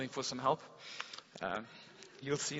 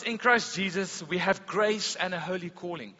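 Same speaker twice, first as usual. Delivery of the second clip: proclaiming. Real, not acted. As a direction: preach it out with force. Preacher proclaiming scripture loudly.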